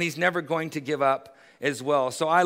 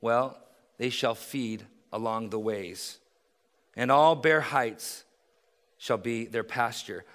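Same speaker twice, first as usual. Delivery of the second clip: lower, softer calm answer; quiet, reassuring divine reply; God reassuring; 6 semitones lower, 3 dB quieter than usual. Acted. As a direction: settle the worry gently.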